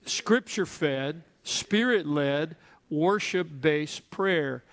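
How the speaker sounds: each part drawn out slowly, rising then falling; slow call-and-response. Shown as a demonstration. Pastor leading the church to repeat, slow chant. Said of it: "Say it with me".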